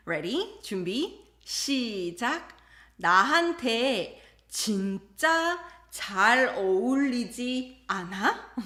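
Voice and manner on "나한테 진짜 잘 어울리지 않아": fishing for praise. Acted. Acting wife fishing for compliment.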